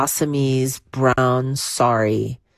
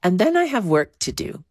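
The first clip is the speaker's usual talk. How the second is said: Parvati; 4 semitones higher than usual. Retold or imitated. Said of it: "She said".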